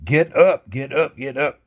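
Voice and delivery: hammering on a sleeping man's door; retold wake-up call. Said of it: "I'm banging on the door".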